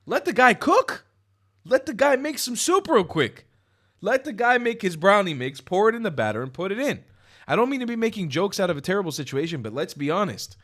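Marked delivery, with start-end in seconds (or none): 0.1-7.0 higher and louder, cheering the motto on; hyped-up quote. Retold or imitated. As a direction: sell the slogan like a hype man. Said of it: "Ben Shapiro is the one who said this".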